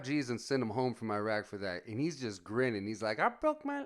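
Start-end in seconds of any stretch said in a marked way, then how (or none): 3.2-3.8 squeaky-high imitation of a buddy; high Tyson-like voice. Imitating injured buddy grinning about his payout, high voice. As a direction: pitch it way up, Mike Tyson style. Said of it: "he had a high voice like Mike Tyson".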